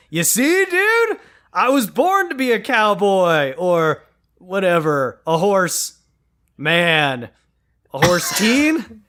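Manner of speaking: hammed-up high surfer boast; excited surfer dude. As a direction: brag about being a cowboy. Michelangelo boasts to Barbarella.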